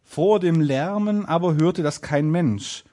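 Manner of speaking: slow, measured storybook reading; fairy-tale narration. A narrator's reading. Narrator telling that nobody hears the tailor, storytelling. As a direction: read it out deliberately, like a tale.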